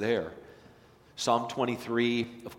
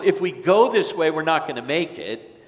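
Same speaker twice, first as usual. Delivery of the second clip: retold warning; 4 semitones higher, 8 dB louder than usual. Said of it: "he said to the people".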